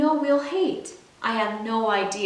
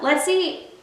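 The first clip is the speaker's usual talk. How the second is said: a light, higher grandma call to the table; 6 semitones higher than usual. Retold or imitated. Grandma calls the grandkids to dinner, lightly voiced higher call. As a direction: sing it out like grandma summoning the kids. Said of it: "my grandma calls out".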